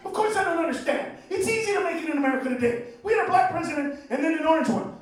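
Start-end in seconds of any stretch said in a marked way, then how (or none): none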